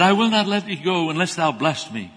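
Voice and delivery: cling to God and beg; begging. Retold or imitated. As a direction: Jacob wrestling God, begging for a blessing. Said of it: "He's begging, he's begging for it".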